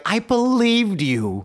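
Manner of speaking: high, drawn-out mock reproach; mock wounded woman. Duped woman to prankster boys, high mock wail. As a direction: wail it as the duped bystander, hammed up.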